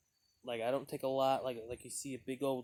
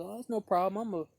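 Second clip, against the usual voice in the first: friendly guy; 4 semitones higher, 4 dB louder than usual. Retold or imitated. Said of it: "he goes".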